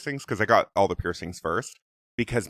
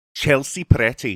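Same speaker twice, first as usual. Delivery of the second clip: put-on loud, high Scottish accent; 5 semitones higher, 7 dB louder than usual. Showing the phrase used to get into the accent: Scottish accent. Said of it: "that's how I get into it".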